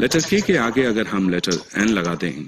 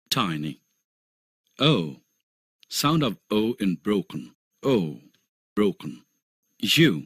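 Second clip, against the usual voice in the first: each vowel sound said very slowly and clearly; slow phonics drill; much slower than usual. Shown as a demonstration. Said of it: "यह छह diphthongs हैं". (धीमा, साफ़ उच्चारण अभ्यास)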